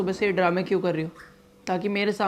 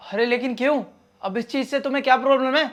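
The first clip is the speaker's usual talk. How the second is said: higher-pitched, indignant questioning; exasperated protest; 5 semitones higher than usual. Acted. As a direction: protest to your wife, pitch climbing. Protests cancelled gym membership. (झुंझलाकर विरोध करते हुए)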